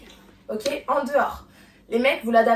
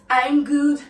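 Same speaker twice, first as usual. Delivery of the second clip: I'm good louder with a rise; sassy I'm good; 7 dB louder than usual. Acted. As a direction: throw it out with sass. The sassy move line. (I'm good lancé avec du peps)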